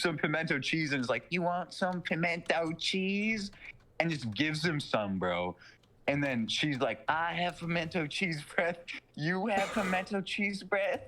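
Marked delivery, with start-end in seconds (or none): 1.3-3.5 put-on slow, sweet-creepy old lady offer. 7.1-11.0 higher put-on old lady voice, leering; lightly voiced creepy granny. Old lady on his lap.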